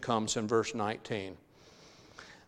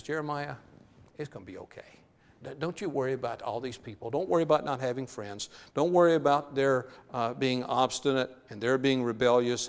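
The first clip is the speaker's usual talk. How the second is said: gentle reassurance. Acted. God reassuring Jeremiah, hushed and tender.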